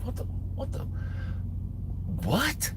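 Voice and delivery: hushed, high-pitched retold bafflement; stunned disbelief. Teller hears he is called suicidal, stunned disbelief. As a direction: trail into a small, high, baffled question.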